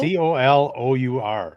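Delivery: spelled out slowly. Shown as a demonstration.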